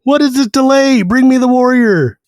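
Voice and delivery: high, imperious demand; impatient dragon voice. Retold or imitated. Dragon demanding the warrior be brought, high imperious voice. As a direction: screech your impatience down at them.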